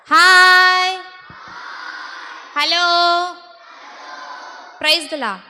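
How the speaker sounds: call-out greeting. Real, not acted. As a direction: call out each greeting and leave room for a reply. Leading greetings before asking for louder.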